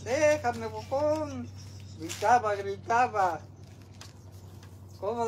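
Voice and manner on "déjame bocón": high, drawn-out mock wail; teasing mock cry. Dad teasing his daughter about how she cried, mock wail. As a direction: imitate the cries slowly, pitched up. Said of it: "Sí, gritaba".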